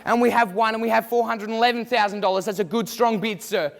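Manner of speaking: brisk auctioneer patter working the room; auctioneer call. Acted. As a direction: drive the bidding like a real auctioneer. Mock auction, student calling bids.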